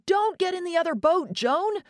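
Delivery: high yell, a bit fast; alarmed yell. Acted. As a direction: yell a warning at the girl. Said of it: "I yelled".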